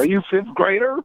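high-pitched question in a Russian accent. Shown as a demonstration. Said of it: "I said that with a Russian accent".

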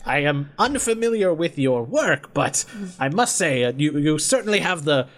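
lightly voiced formal inventor; measured praise in a mannered character voice; inventor Phineas. Inventor appraising a monster hunter, mannered formal voice.

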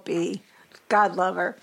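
ordinary delivery

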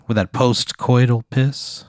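slow, deliberately savored words; drawn-out phrasing. Real, not acted. Storyteller describing waking at night, drawn out. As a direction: linger on the crude phrase. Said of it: "Why'd you say it like that".

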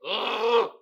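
loud exasperated "ugh"; acted groan of defeat; frustrated groan. Groaning over bike chain frustration.

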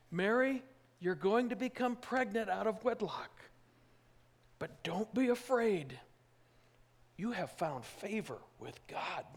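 lightly voiced angel proclaiming; angel's announcement. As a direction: announce it like a herald from heaven.

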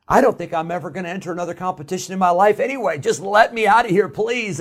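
rushed, desperate inner plea; pleading inner thought. Retold or imitated. Boy after a flop thinking, pleading to escape. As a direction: beg to get out fast. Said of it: "And I'm thinking".

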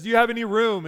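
loud, high stage line; child actor's Joseph. Acted. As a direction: project it like a pageant performer. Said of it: "I'm just gonna go white English".

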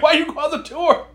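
high, stilted android voice; Data voice. Retold or imitated. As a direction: say it like a stiff android. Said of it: "he kinda sounded like Data".

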